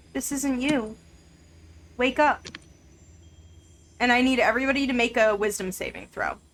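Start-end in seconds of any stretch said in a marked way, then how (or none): 0.2-2.5 kind, gentle, calm, mild-mannered delivery. The game narrator voices a voice the players hear: gentle voice. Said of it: "You hear a gentle voice".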